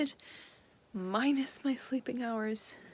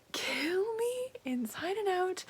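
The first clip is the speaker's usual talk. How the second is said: overwhelmed; 9 semitones higher, slower than usual. Real, not acted. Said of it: "overwhelmed by the book".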